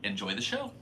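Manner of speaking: high, breezy showman voice; mock host. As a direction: hand me off to the show grandly. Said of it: "he's like".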